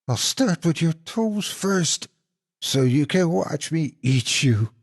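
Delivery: menacing monster. Acted. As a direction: savour every word of the threat. Monster threatens to eat him.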